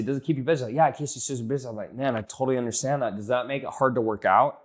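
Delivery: quick, casual back-and-forth without pauses; conversational. Shown as a demonstration. Coach shows a sales chat that hides the pitch, conversational. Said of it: "I wouldn't say it just like that, but I would say".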